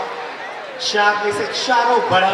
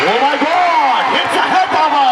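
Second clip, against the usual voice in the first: higher-pitched commentator outburst; real excited stadium call; excited reaction; 8 semitones higher, 6 dB louder, much slower than usual. Real, not acted. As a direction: react live to a stunning play. Reacting to play live.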